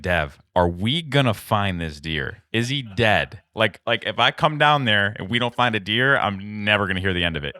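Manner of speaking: mock anxious pleading. Hunter mocking his friend's frantic questions about the deer. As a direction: imitate a nervous friend begging for good news. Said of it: "he was like".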